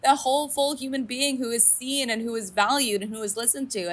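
high, rising encouragement; rally her to know her worth; cheering her on. Retold or imitated. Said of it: "And I was like".

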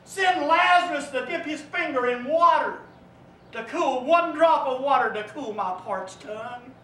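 screaming out. Acted. Rich man in hell begging God for water, screaming. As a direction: scream for just one drop of water. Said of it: "that voice screams out".

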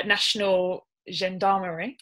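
attempted French pronunciation of Gendarmerie; French accent. Real, not acted. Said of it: "my French accent there was probably poor".

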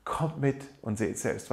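savouring the words, tender and slow; slow tender invitation. Retold or imitated. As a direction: let the invitation sink in slowly. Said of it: "Was für eine wunderschöne Einladung".

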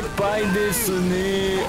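slow, drawn-out fake Japanese; mock Japanese. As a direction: drag out the fake Japanese phrase.

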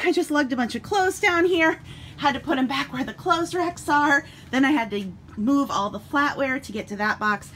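slightly winded, catching breath. Real, not acted. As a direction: talk while still puffing. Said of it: "Sorry, I'm out of breath".

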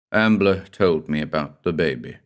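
low, gentle telling; said gently. Acted. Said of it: "I said gently".

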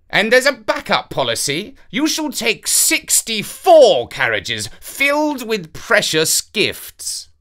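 a king delighted with his own generous plan; enthusiastic. A narrator's reading. King instructs Avenant about the carriages, eager and grand. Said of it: "said the king enthusiastically".

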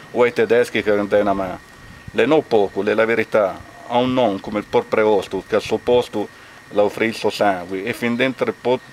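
measured recitation in Castano dialect; dialect poem recital. Acted. Villager reads a lament for three executed young townsmen, measured dialect recital. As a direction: recite a lament in phrased verse, pausing between lines.

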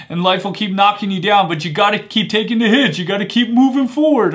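put-on half-hearted Italian-accented movie quote; sad Italian accent. Coach quoting Rocky on taking hits, in a poor Italian accent. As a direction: lightly attempt Rocky's Italian accent, building in pitch. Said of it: "that's my sad Italian, uh, accent".

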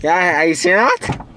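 talking through a mouth guard; slurred words around a mouth guard. Real, not acted. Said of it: "with this mouth guard in my mouth".

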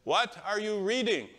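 put-on high, eager old man asking; elderly man on a plane asking eagerly, excited. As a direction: lean in, curious and thrilled. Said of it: "he was so excited".

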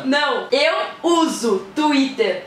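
very slow, over-articulated phrase; slow exaggerated mouthing. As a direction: stretch each word out. Mouthing phrase for lip reading.

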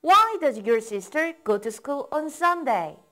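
slow, even drill pace; slow model reading. Shown as a demonstration. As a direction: say it slowly, leave room to repeat. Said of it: "따라 읽어보세요".

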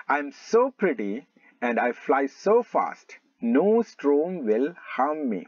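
slow, measured reading of a boastful line; drawn-out classroom storybook reading; slow story read-aloud. Acted. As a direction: read it out slowly, stretching "so". Reads the proud bird's lines.

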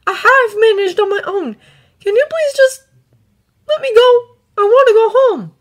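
high, loud, upset outpouring; distraught pleading. A narrator's reading. Exhausted boy begging the dragons to let him go, distraught. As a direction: plead to be released, voice pushed up high.

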